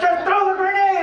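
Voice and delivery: mock impatient order. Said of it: "he was like".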